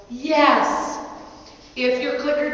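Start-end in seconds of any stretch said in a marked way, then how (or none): 0.1-1.0 excited dog praise; quick happy burst of yes. Real, not acted. Praising dog after weave pass.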